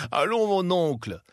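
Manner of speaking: cheerful nephew. A narrator's reading. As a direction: coax the uncle gaily. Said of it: "reprit gaiement le neveu".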